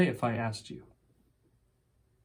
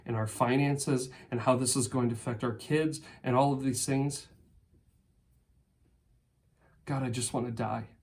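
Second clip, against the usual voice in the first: drops softer, weary and hopeless; despairing example prayer; 3 dB quieter than usual. Pretend. Preacher voicing a despairing believer's prayer, softer and hopeless. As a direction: let the prayer sink into quiet despair. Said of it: "What would honest prayer look like for you?".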